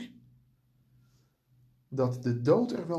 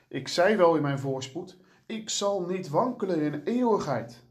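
proud, boastful; 2 semitones higher than usual. Retold or imitated. David boasting of his prosperity, mildly haughty. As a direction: let the pride creep into it, lightly. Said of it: "Hoor je de hoogmoed?".

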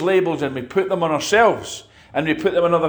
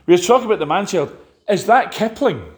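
light mock voice, higher and fast; imitating a puzzled woman; 6 semitones higher, faster than usual. Retelling a church woman's question, lightly mimicked. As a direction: playfully quote her confused question. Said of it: "She said to me".

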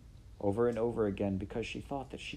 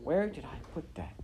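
higher, drowsy cook voice; sleepy mumble; 7 semitones higher than usual. Acted. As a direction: mumble as if asleep. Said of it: "she mumbled in her sleep".

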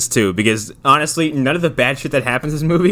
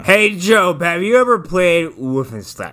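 mock eager invitation; 5 semitones higher than usual. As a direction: call it out bright and playfully. Voices character luring Job.

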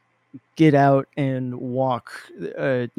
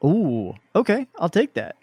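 pop singer voice; 3 semitones higher, 3 dB louder than usual. Pretend. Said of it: "Now you sound like, I don't know, Shakira".

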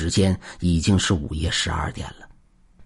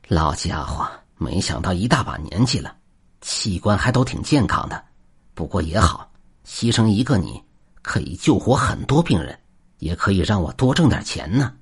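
cold sneer. Acted. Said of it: "阴冷地笑道".

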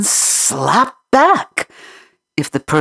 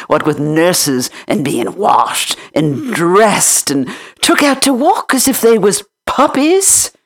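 higher, lively country housemaid voice; chatty Yorkshire maid; 6 semitones higher, 4 dB louder than usual. Acted. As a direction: rattle on like a talkative maid. Martha lectures.

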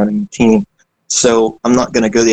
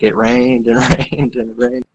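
Forrest Gump; slower than usual. Retold or imitated. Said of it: "that scene out of Forrest Gump".

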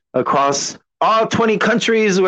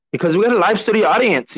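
1 mock announcer; 5 semitones higher, faster than usual. Joking announcer hype.

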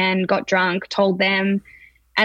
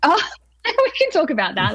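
1 laughing; 8 semitones higher than usual. Real, not acted. Laughs off question about TV.

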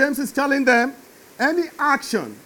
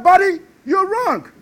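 God's stern voice; 6 semitones higher than usual. Retold or imitated. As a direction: proclaim it like God condemning the fool. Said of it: "God said".

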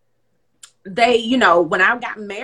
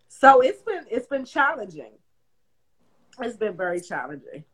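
holding back tears. Real, not acted. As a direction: voice catching, fighting tears. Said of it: "and I'm trying not to cry".

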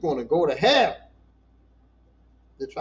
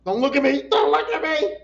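imitating embarrassed crying; 9 semitones higher, 6 dB louder than usual. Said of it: "And I'm crying my ass off".

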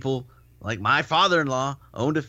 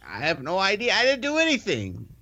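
protesting innocence; 7 semitones higher than usual. Retold or imitated. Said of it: "I'm like".

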